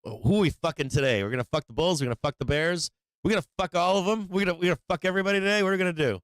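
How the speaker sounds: high, fast, gloating mock dealer; gleeful dealer. Trader imitating a desk dealer choosing who to fleece, gleeful and gloating. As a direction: ham up a greedy dealer picking his victims. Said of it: "sit at that desk and be like".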